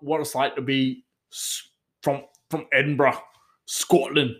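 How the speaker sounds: hesitant, poorly done Scottish accent; attempted Scottish accent. Shown as a demonstration. Vlogger failing at an Edinburgh voice, attempted Scottish accent. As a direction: grope for Scottish and not quite land it. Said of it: "Nah, it's pretty bad".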